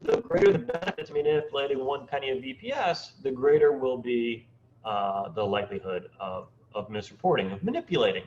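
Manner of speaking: choppy robotic video call; robotic audio. Real, not acted. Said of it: "sort of robotic".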